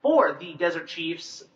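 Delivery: slow, deliberate announcer delivery; guest introduction. Acted. Host introduces the team chiropractor, slow announcing. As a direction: spell out each title at an unhurried pace.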